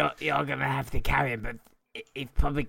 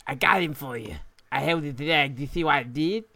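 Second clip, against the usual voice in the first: weird lisp voice. Acted. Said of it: "that went from a weird lisp to a high pitch to a fat tongue lisp".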